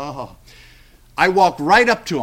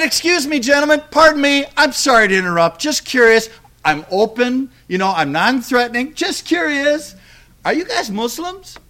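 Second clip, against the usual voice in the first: higher, overly polite and curious; polite curious question; 6 semitones higher than usual. Retold or imitated. Preacher politely asks strangers at the next table, sweetly curious. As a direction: sound harmless and open, just asking.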